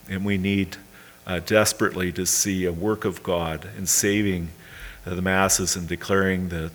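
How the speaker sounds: real congregational prayer, with hesitant pauses; earnest prayer. Real, not acted. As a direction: lead a closing prayer, pausing to find words. Leads a closing prayer.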